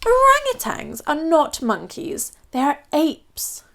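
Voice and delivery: a lightly voiced prim old Queen, setting him straight; a hint of a haughty Queen correcting. Queen primly correcting the Duke on apes. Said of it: "corrected the Queen".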